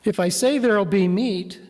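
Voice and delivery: pointed rhetorical question with long pauses, mildly sarcastic; a touch of irony, measured and deliberate; ironic God. Retold or imitated. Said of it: "you can almost hear the irony or sarcasm in God's voice".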